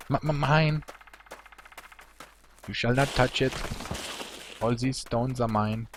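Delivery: high, greedy stuttered claim; possessive hoarder. Pretend. Streamer playing a greedy hoarder guarding stones, high-pitched and possessive. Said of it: "I get really possessive".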